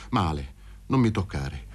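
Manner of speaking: low, soft warding-off; lightly voiced sick man, low and subdued; sombre rebuff. Sick Luca keeping Paroni away, low sombre rebuff.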